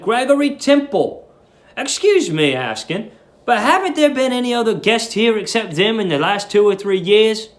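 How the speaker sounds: lightly voiced curious young guest; young Billy. Billy's dialogue read aloud.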